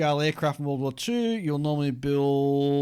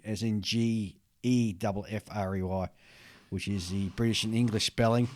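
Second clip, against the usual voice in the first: normal talking voice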